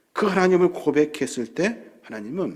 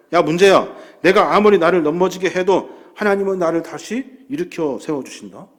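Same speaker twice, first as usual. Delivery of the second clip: louder, calling the problem out; defiant shout at the problem; 5 dB louder than usual. Retold or imitated. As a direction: shout it down with faith. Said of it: "문제와 싸워야". (문제를 향해 외치는 담대한 선포)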